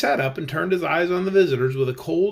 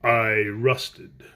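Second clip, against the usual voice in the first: earnest; 6 semitones lower than usual. Acted. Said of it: "explained in an earnest voice".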